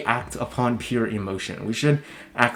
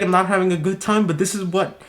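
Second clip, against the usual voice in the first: ordinary delivery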